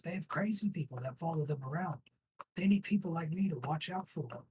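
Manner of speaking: a jittery thug talking fast to save his skin; scared guard. Acted. GM voices frightened guard.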